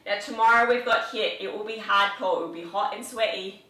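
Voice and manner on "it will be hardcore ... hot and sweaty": put-on a light English accent, words clipped. Trainer previewing tomorrow's workout in a light English accent. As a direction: slip into a jokey English accent. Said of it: "Why am I speaking in my English accent?".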